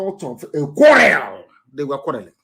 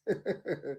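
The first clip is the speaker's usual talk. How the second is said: quiet private laugh; chuckle; 3 semitones higher, 17 dB quieter than usual. Real, not acted. Preacher laughing at his own question, soft chuckle.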